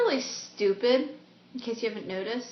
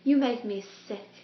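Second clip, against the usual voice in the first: Lily. Acted. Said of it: "like, a British accent".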